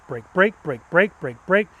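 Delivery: each brake pulsed in an even rhythm; progressive brake cue. Shown as a demonstration. Instructor showing progressive braking, rhythmic pulses. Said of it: "just brake".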